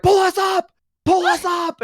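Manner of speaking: high, loud frantic call; mock desperate plea. Dangling party calling to the turtle, high loud frantic plea. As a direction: beg the anchor to haul you up.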